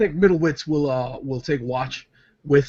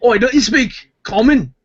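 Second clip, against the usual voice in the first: demanding; 7 semitones higher, 5 dB louder than usual. Acted. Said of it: "Middlewitz turns to Red Shark".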